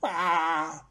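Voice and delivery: short pretend cry; hammed-up crying sound; mock child's wail. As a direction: fake a little bawl.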